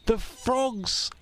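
plain. Acted. Repeated, second cried out.

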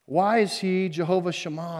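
ordinary delivery

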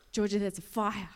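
retold astonishment, building to loud; overwhelmed, building. Lewis telling Georgia of the fire inside, building amazement. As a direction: repeat it with mounting amazement, ending loud.

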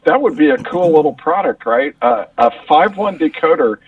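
muffled, hollow tube sound; through a tube. Real, not acted. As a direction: voice coming down a tube. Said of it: "talking through a tube".

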